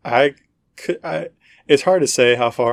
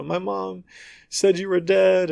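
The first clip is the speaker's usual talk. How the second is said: higher, hushed mock-tender line; emotional, touching; 7 semitones higher than usual. Imitating game characters in their touching reunion, emotional. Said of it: "they're having this emotional, touching thing".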